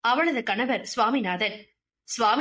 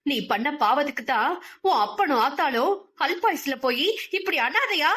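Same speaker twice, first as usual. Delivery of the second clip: raised-voice tirade full of scorn; shouting rant; 4 semitones higher than usual. Acted. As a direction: scream down at the crying girl. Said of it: "அவர் கத்திக்கொண்டு இருக்கும் போதே".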